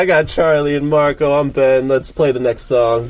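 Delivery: lightly acted hello to a crowd, settling down; stage emcee intro. Shown as a demonstration. Singer showing bandmates his between-songs banter, lightly acted emcee intro. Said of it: "I've been talking in the mic".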